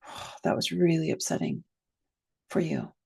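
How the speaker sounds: mildly direct, measured acknowledgement. Shown as a demonstration. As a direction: gently direct validation. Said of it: "could be a little more direct".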